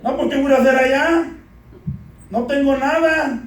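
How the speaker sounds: lightly whiny, put-on complaint; mock whining. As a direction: imitate someone moaning about being sent away. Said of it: "estamos llori y llore".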